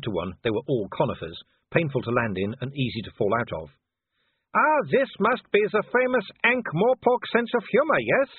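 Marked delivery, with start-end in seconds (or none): 4.5-8.3 much higher, loud taunting werewolf voice; Wolfgang. Acted. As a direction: sneer at the cornered man from below. Wolfgang's voice held.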